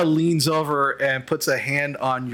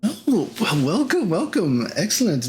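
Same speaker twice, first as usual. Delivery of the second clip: higher-pitched, pleased greeting; warm welcome; 4 semitones higher than usual. Acted. Table of scholars welcomes newcomers, warmly and high. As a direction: welcome them in with delight. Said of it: "very warm".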